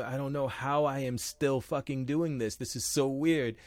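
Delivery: slow, bemused muttered wondering; mock self-doubt. Performer doubting himself every day, mock bewildered. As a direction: play a performer baffled by their own luck.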